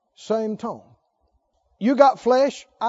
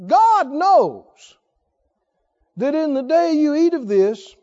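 ordinary talk

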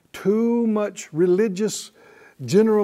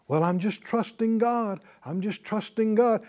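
mock pious cliché; 3 semitones higher, 4 dB quieter than usual. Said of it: "the individual that says that".

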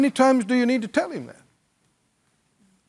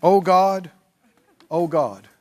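a hint of a whiny pleading prayer, pitched lower; mock begging prayer; 3 semitones lower, slower than usual. Preacher mimics believers begging God, mildly mocking plea. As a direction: pray like a helpless beggar, lightly mocked. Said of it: "This is how many, many believers respond".

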